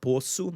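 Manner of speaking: "poço" as "POH-soo"; rounded closed O in "poço"; closed stressed O. Shown as a demonstration. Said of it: "gonna sound like this".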